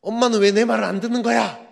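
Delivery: loud, high-pitched angry outburst; quarrelling son. Acted. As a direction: yell back at mother in an acted fight. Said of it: "이러면서 싸움이 시작이 됩니다". (엄마에게 버럭 대드는 아들 연기)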